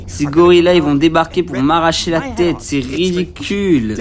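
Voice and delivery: lightly voiced fretful lawyer; complaining lawyer. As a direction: grumble through it like a rattled lawyer. Voices the game's panicky lawyer. (avocat plaintif, légèrement joué)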